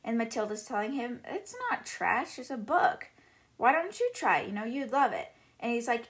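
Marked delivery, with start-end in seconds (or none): 1.2-5.3 put-on higher, slightly pleading child's retort; lightly acted protest, pitched up; mild protest. Matilda defends her book to her father, mildly protesting.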